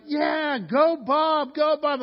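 high, loud cheer for a friend; cheering shout. Retold or imitated. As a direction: yell it out like fans at a party. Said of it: "We're like".

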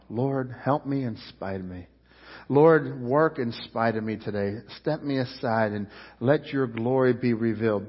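hushed front-row prayer; quiet prayer. Retold or imitated. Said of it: "I pray that quite often".

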